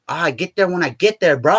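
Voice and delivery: easygoing mock Hawaiian accent; light Hawaiian pidgin lilt; imitating Hawaiian homie. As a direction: shrug it off like a Hawaiian buddy. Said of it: "he's from Hawaii".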